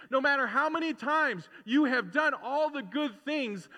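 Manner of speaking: high, loud, rolling preacher's crescendo; full-force preaching. Real, not acted. Preacher to congregation on God's prodigal grace, impassioned full-force preaching. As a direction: hammer each phrase out, pitched high.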